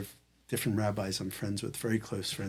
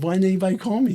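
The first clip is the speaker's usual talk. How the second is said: retold indignant outburst; 10 semitones higher, 10 dB louder, faster than usual. Demanding why nobody called him.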